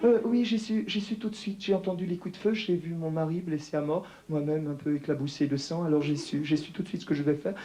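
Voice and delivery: a light mock French accent as Jackie Kennedy; lightly put-on French lilt. Comedian mocking Jackie Kennedy, light French accent. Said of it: "avec l'accent français, Bouvier".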